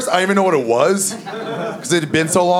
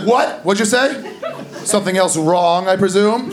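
sarcastic jab; 4 semitones higher than usual. Pretend. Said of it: "She's like".

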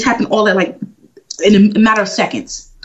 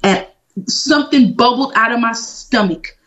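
ordinary talk

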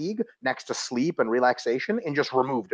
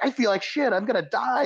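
acted miserable client; 7 semitones higher than usual. Acted exhausted client answering coach.

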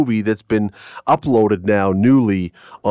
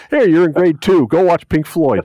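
parent voice; 6 semitones higher, 4 dB louder than usual. Pretend. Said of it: "unless our parents had sent us off".

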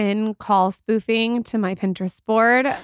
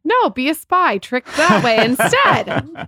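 playful push; 5 semitones higher, 5 dB louder, slower than usual. Real, not acted. Joking suggestion to guest.

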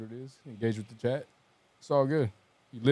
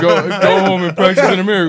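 mocking replay; 4 dB louder than usual. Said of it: "repeats the line".

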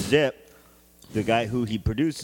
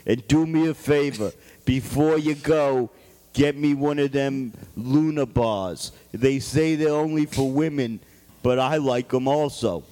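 Donald Trump voice. Acted. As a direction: boss giving orders, Trump style. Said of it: "this is a character I can get behind".

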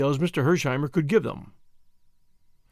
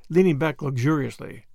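plain reading voice

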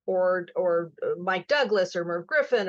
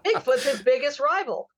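monster truck announcer; 6 semitones higher than usual. Shown as a demonstration. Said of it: "You still do that very well".

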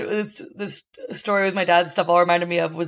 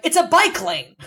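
high, laughing objection; mock cyclist protesting through a laugh; 8 semitones higher than usual. Exasperated onlooker, laughing.

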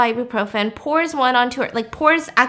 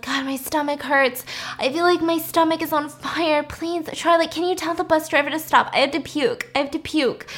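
imitated queasy whine, slightly raised; pained pleading; 3 semitones higher, 5 dB quieter than usual. Sick Lizzie begging Charlotte to stop the bus, pained pleading. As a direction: plead softly through a stomach ache. Sick friend begs for help.

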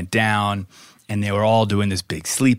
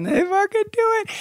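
excited. Real, not acted. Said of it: "excited storytelling".

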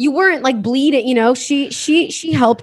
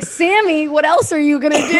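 laughing retold prodding; 4 semitones higher than usual. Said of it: "I was like".

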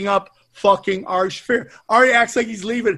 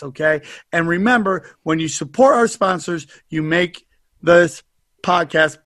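sponsor ad read. Acted. Host hypes the sponsor to listeners, pumped ad read. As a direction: sell it like a late-night infomercial.

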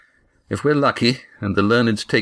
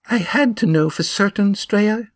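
murmured; 13 semitones higher than usual. A narrator's reading. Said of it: "she murmured".

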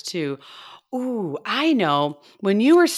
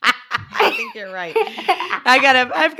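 high laughter breaking through the words; laughing; 6 semitones higher, slower than usual. Real, not acted. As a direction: laugh while admitting she's wrong. Laughs at her duck-like noise.

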